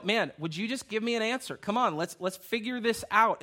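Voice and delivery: pressing for an answer, half-playful; retold bickering. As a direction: lightly act out a couple's argument. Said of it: "we're arguing about how this".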